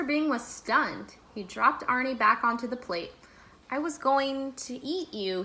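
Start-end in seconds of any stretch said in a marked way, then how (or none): 3.7-5.4 shocked. Acted. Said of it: "he replied in shock".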